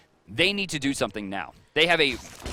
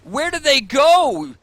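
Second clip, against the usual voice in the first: high, slow, stunned question; astonished; 11 semitones higher, 8 dB louder, much slower than usual. Real, not acted. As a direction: disbelief at the disappearing team. Caster stunned by the play.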